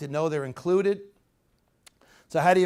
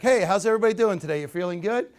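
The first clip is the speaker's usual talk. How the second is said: louder, faster, lively greeting; upright, energetic; 3 semitones higher, 6 dB louder than usual. Shown as a demonstration. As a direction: stand tall and greet the room with energy. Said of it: "So now if you stand up here".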